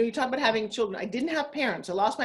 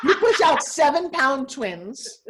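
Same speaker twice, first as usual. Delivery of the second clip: laughing; 5 semitones higher, 7 dB louder, much slower than usual. Real, not acted. Laughing about giving birth.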